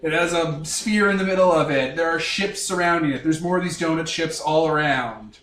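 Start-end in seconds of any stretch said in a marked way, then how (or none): 0.0-1.7 slow, higher scene-setting narration. Acted. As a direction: paint the opening shot slowly. Game master scene setting.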